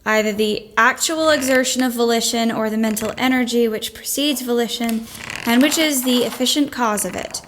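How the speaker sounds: reading a dry treatise aloud, monotone; dry dull reading. Acted. Jo reading a boring treatise to Aunt March, dutiful drone. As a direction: plod through the boring book dutifully.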